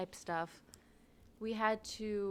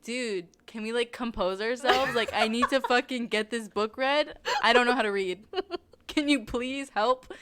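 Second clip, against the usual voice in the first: retold annoyed plea; 6 dB louder than usual. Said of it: "I was so pissed".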